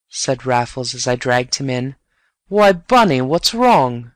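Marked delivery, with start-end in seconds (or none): 2.5-4.1 concerned surprise. Acted. Raffles finds Bunny in dark.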